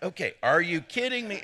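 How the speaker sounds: laughing through a mock parrot of the line; chuckling mock echo; mocking the audience. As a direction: tease them by echoing it with a laugh. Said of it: "You're like".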